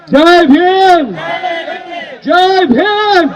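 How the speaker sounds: slow drawn-out rally call; slogan call. Real, not acted. Rally speaker calling the greeting to the crowd, drawn out. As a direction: stretch each word out to the crowd.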